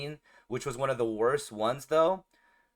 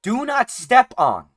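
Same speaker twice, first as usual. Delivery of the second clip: slow, higher, loud reading of each word; sign read out; 8 semitones higher, 10 dB louder, slower than usual. Retold or imitated. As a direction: spell out the warning.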